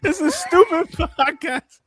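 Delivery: high, drawn-out put-on kid voice; mock whining child. Streamer mimicking a crying child, slow mock whine.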